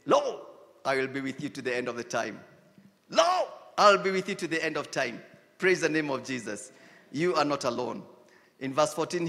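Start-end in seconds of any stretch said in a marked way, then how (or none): 0.0-5.2 soft divine promise. Pretend. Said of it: "and he says".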